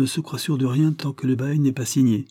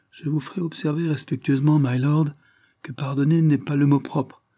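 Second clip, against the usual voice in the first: higher, lively comeback; quick retort; 6 semitones higher than usual. Acted. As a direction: snap back with respect. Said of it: "riposta vivement". (riposte vive et un peu plus aiguë)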